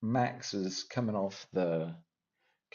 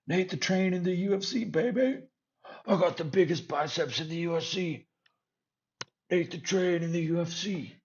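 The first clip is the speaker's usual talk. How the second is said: much higher, brash boastful caricature; mock Nate the Train; 9 semitones higher than usual. Mocking Nate the Train bragging about himself, hammed up. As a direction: puff up like a bragging fighter.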